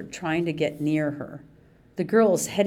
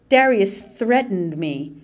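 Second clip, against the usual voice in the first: louder accusing cry; cried out; 3 semitones higher, 6 dB louder than usual. Acted. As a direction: cry out as the victim. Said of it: "Mandy Sue cried".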